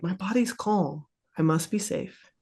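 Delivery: soft, settled inner voice; calm self-reassurance. Acted. Voicing the body's calming message to brain.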